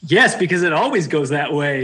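dry, sarcastic agreement. Real, not acted. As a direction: say it sarcastically, deadpan. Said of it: "you can sense the sarcasm in my voice".

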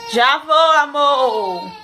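loud call to the next room. Real, not acted. Mother calling to crying baby.

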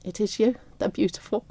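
soft, tearful retelling of tender words; quietly choked up, close to crying; fighting back tears. Real, not acted. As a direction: hold back tears as you quote gently. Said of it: "trying to fight back the tears".

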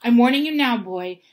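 angry uncle laying down the law; menacing warning. A narrator's reading. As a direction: bear down hard on a forceful warning. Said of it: "putting his large purple face right up close".

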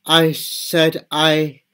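stuck on the s, long pause before stammer. Real, not acted. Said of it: "I have a stammer".

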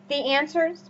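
speaking with hiccups; hiccuping between words. Real, not acted. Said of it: "I have the hiccups".

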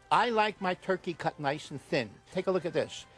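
pushy infomercial pitch; hard sell ad. Acted.

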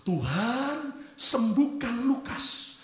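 slow, acted-out pleading prayer; drawn-out plea, sinking at the end; crying prayer. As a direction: imitate a weeping parent begging God.

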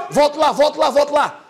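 high, loud shout to rewind the clip; loud call to the crew. Real, not acted. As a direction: shout it across the studio.

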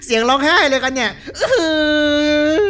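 amused laugh at the ghost's crying. Real, not acted. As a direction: chuckle through the words.

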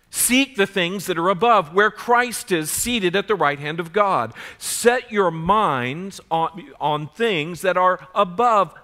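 loud, weighty Bible reading; emphatic scripture reading. Acted. Preacher reading scripture to the congregation, emphatic. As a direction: read the verse out with force.

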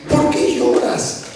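slow, airy, gently put question; wonderful voice. Acted. Jesus asking the weeping woman why she cries, tenderly. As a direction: ask it slowly, with wonder. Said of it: "con su voz maravillosa".

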